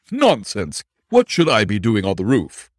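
bristling suspect brushing off the charge; indignant denial. Acted. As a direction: scoff hard, then press the question. Jones denying accusation.

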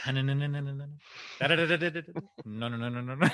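rapid "na-na-na" stutter; imitated nonsense putting noise. Golfer lining up a putt, rapid imitated babble. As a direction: rattle off nonsense syllables like a putting charm. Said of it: "been to mini golf or regular golf and gone".

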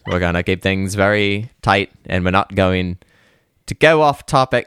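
lightly put-on Cockney chimney sweep accent; a playful stab at a Cockney accent that slips away; mock Cockney accent. Cohost promising to keep the podcast tight, in a mock Cockney accent. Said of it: "I lost the accent".

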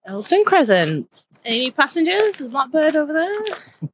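lightly voiced conductor call; tram conductor voice.

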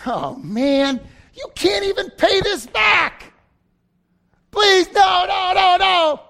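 high, loud cries of no; hammed-up frantic begging; desperate pleading. Debtor begs master not to jail him. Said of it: "He says".

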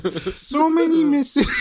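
high, loud, breaking into laughs; can't keep a straight face; laughing through mock crying. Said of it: "Like Jordan Peterson, crying if I can".

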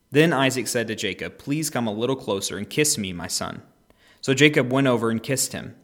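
animated, measured scripture reading; Bible story narration. A narrator's reading. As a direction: read the Bible story aloud with expression. Reads the Bible story aloud.

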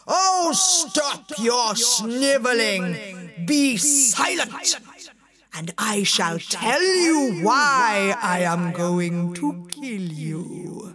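slow, lightly voiced giant; roaring genie. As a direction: scold like a tyrant. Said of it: "The genie roared like a volcano erupting".

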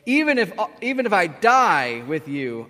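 loud, emphatic vow of loyalty; passionate arguing. Acted. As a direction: insist forcefully as devoted Peter. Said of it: "passionate Peter, argues with me".

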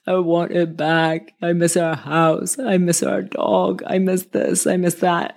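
put-on slow, mildly tearful child's plea; imitating crying son. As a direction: echo a son's sad complaint, gently and slowly. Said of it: "he was crying and suddenly he was like".

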